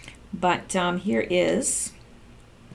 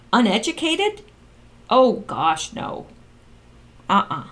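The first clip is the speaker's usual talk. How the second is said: incredulous. Real, not acted. Rebutting the leaked text message.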